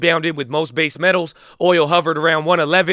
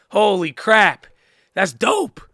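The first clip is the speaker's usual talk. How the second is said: excited, swooping, hyped-up gush, voice cracking; 3 semitones higher than usual. Congratulating a friend who made it to the NBA, excited, voice cracking. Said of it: "you making my voice crack".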